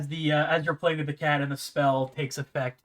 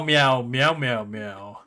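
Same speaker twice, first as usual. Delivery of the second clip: cat meows; 2 semitones lower, much slower than usual. Retold or imitated. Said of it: "all you hear is meow".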